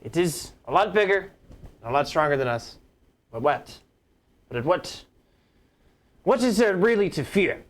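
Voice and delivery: rally the troops from a soapbox; general speech. Acted. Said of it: "I'm gonna draw my sword and be like".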